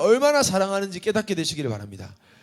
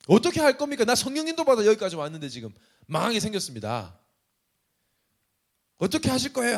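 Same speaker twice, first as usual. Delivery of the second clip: desperate plea; 3 semitones higher than usual. Retold or imitated. Retold desperate prayer to God.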